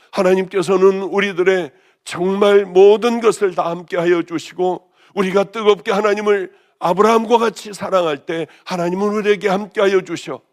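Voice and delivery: ordinary talk, nothing marked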